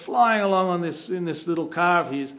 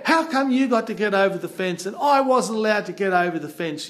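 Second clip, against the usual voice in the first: mock complaint, raised in pitch; upset protest; 4 semitones higher, 3 dB louder than usual. Travel companion asking why he was left behind, upset protest. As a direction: whine about being left out. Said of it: "he's getting all upset".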